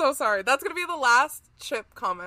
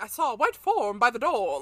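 lightly put-on old-fashioned talk; old-time speaker. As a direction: imitate how people talked back then, lightly. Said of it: "that's the way they talked".

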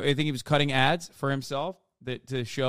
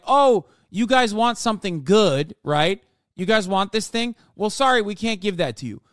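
condescending; 4 semitones higher, 4 dB louder than usual. Retold or imitated. Mocking a politician talking down to voters, patronizing. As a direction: talk down to the voters. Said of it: "condescendingly telling their fucking voters".

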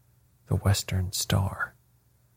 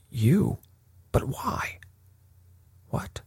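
higher-pitched, baffled questions trailing into softness; impotent spluttering; 6 semitones higher, 5 dB quieter, slower than usual. A narrator's reading. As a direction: splutter helplessly in disbelief. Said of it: "The nobleman spluttered impotently".

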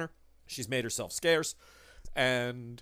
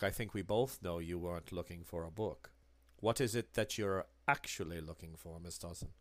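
low, soft, menacing bookseller; Herr Müller; 5 semitones lower, 4 dB quieter than usual. Acted. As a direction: press her quietly, with veiled threat.

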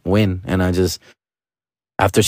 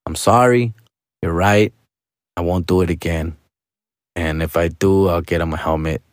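a little sarcastic; 5 semitones lower than usual. Retold or imitated. Dad conceding to the scared mom, mildly sarcastic apology. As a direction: apologize with understated sarcasm, mock-dutiful. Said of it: "being a little sarcastic".

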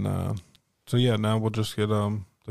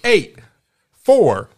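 high, loud computer reading out digits; robot numbers; 8 semitones higher, 10 dB louder, much slower than usual. Retold or imitated. Host mimics a friend reading numbers as a robot, high and loud. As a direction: bark each number like a machine. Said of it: "giving them numbers like a computer".

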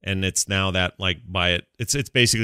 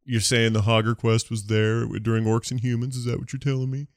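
nitpicky purist; 2 semitones higher than usual. Retold or imitated. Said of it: "there's some purists out there that are gonna be like".

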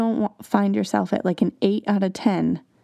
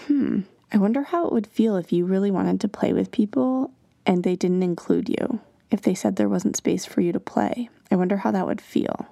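gentle wondering. Shown as a demonstration. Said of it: "just by saying it out loud".

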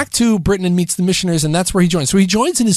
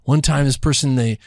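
annoying activist; 5 semitones lower than usual. Retold or imitated. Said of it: "the annoying activist to, like, you know, the wannabe socialite".

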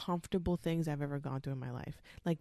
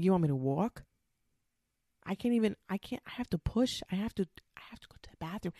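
incredulous protest; 3 semitones higher, 3 dB louder, faster than usual. Retold or imitated. Laboring woman protests being asked to walk, incredulous and rushed. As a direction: protest that walking is impossible.

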